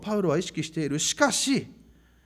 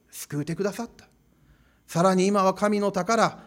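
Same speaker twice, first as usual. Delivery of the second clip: Hakata dialect. Retold or imitated. Pastor imagines Paul urging the church, in Hakata dialect. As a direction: talk like a Kyushu local in Hakata dialect. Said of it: "きっとパウロはこう言うんですよ".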